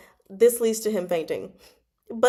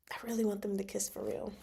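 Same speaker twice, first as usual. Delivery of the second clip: hushed, much softer voice; soft wistful plea; 11 dB quieter, faster than usual. Real, not acted. Fan repeats her wish softly.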